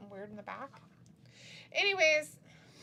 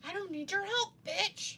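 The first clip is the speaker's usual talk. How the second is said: mock tough guy; 10 semitones higher, 4 dB louder than usual. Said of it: "He's gonna be like".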